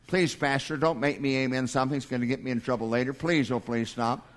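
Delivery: hushed, rushed mock plea from a scared husband; pleading nervous husband. Pastor voices a nervous husband in the pews, hushed rushed pleading. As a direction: beg the pastor quietly and quickly, half joking. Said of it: "you men are just afraid to amen".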